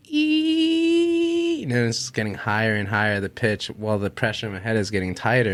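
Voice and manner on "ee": long high squeal like a kettle; high, held "eee" of a boiling kettle; tea kettle whistle. Retold or imitated. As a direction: imitate a kettle's steady, piercing whistle. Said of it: "like a tea kettle going".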